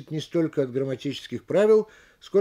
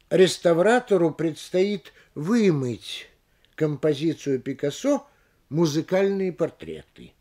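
«вымыть» медленно, с ударением и паузой, «Музыкальные портреты» отдельно; выдели «вымыть» и «Музыкальные портреты» логическим ударением; кавычки ударением и паузами; slower than usual. Shown as a demonstration. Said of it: "логическим ударением, повышением и паузами". (паузы перед названием «Музыкальные портреты», нажим на «вымыть»)

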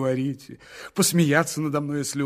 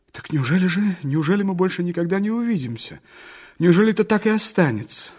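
громче и выше к концу, с мольбой; не отпускать её, умоляя; отчаянно; 4 semitones higher, 4 dB louder than usual. Acted. Мечтатель отчаянно спрашивает при прощании. (отчаянный громкий вопрос)

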